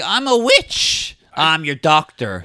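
lightly mocked witch introduction, drawn out; slow, hammed-up line delivery; witch doctor's line. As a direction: overplay the witch's line a little, slowly. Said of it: "the way she delivers the line".

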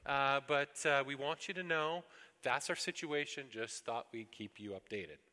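update God like a polite memo; organized report to God. Retold or imitated. A lightly hammed David briefing God on his troubles. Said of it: "I told him in an organized fashion".

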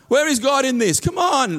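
mock desperate outcry. Voicing a believer crying out.

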